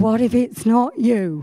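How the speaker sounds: slow, uneasy question; mild worried doubt. Retold or imitated. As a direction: ask it haltingly, half afraid. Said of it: "It's a fear of".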